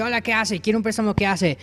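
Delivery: high, playful cartoon wolf voice; wolf's sales pitch. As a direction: greet a pig with a high-voiced loan pitch.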